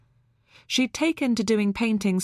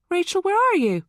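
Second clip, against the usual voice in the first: raised, high searching call; 11 semitones higher, 5 dB louder than usual. A narrator's reading. Mother calling for her missing daughter, high and loud. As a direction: call out loudly for someone out of sight. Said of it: "she called".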